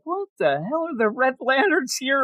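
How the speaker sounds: hammed-up incredulous demand; mock outrage. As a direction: play an alien lord offended at the council. Acted outraged alien at council.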